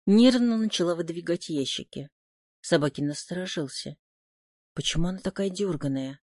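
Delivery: usual speaking voice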